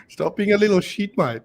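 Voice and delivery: put-on Australian vowels; Australian accent. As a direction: imitate an Australian mate. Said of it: "that's the Australian one".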